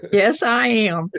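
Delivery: laughing through the words. Real, not acted. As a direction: say it while laughing. Laughing about her twang.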